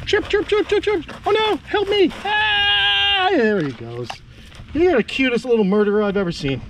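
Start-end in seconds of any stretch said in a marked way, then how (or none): 0.1-3.3 very high tiny chirping cry; voicing the cricket. Vlogger voices the cricket about to be eaten, very high and tiny. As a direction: give the doomed cricket a tiny high plea for help.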